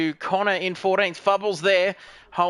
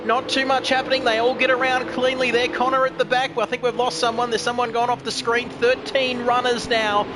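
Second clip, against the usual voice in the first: higher, excited race commentary; live play-by-play; 4 semitones higher than usual. Acted. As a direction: call the race as it happens.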